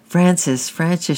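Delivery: put-on high, imploring little-girl sob; sobbing. A narrator's reading. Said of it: "she sobbed".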